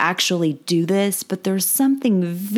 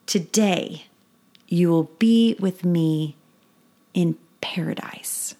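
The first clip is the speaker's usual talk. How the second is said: scripture reading. A narrator's reading. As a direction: read the passage gently to children. Reads the scripture passage aloud.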